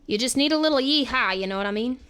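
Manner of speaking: lightly put-on Southern twang; Southern accent. Shown as a demonstration. Streamer coaching chat on a yeehaw, light Southern accent. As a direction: play up a little Southern accent. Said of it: "I used to do a Southern accent".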